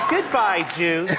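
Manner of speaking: mildly voiced child reading her line; gentle audition take lacking anger; little girl, not angry. Child actress tries the casting line, too mild. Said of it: "we need a little more anger".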